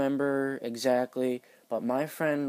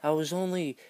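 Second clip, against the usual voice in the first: higher, taken-aback protest; mock defensive; 5 semitones higher than usual. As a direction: act innocent and wounded. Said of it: "she's got all sassy with me".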